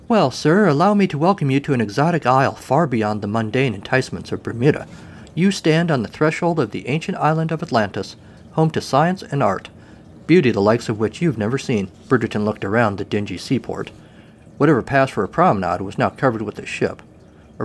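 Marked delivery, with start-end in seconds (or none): 0.1-11.9 lightly voiced grand welcome, high at the start; welcoming hostess. Cormandy welcomes captain to Atlantis, mildly grand. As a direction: put on your best face for a visitor.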